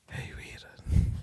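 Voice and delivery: re-enacting a secret whisper. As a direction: whisper it slowly to a companion. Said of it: "I whisper while I'm driving".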